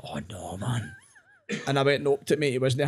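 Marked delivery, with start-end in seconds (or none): 0.0-1.0 very low, soft mock dismay; small, sunken voice of regret; sheepish dismay. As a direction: drop right down to a tiny "uh-oh". Realising the prank has backfired.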